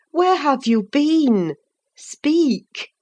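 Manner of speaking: demanding. Acted. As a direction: insist on an answer now. Nelly presses for an answer.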